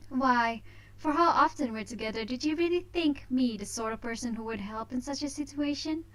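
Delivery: a hint of a smug heiress; haughty young lady. Voices Tina's teasing lines.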